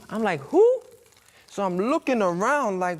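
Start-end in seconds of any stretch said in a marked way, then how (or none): 0.4-0.8 very high, loud falsetto hoot; mock shock. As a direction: shoot way up in comic disbelief. Shocked reaction to the price.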